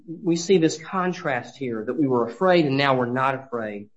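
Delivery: ordinary talk, nothing marked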